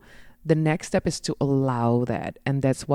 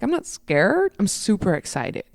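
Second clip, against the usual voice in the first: self pep talk; 6 semitones higher than usual. Acted.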